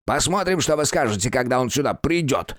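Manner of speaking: put-on high old man spitting the words; the old man spitting a parting threat; spat out. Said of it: "выплюнул старик".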